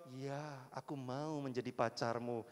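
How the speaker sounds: soft, low, shy yes; sweet crush saying yes. Pretend. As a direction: answer the confession softly. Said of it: "Waktu dia jawab". (jawaban malu-malu yang lembut)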